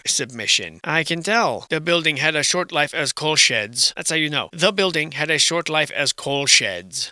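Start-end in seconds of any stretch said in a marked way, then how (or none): 4.5-7.1 slow, deliberate mock reading; mocking slow recital. Ridiculing a student's submission, slow mocking recital. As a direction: spell it out word by word, slowly.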